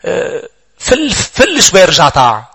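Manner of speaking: slow, coaxing devil luring a believer away; tempting devil. Acted. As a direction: drawl it out like a sly tempter. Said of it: "الشيطان عم بيقول لك".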